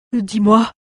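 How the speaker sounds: high, loud dwarf repeating himself. Acted. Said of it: "répéta-t-il".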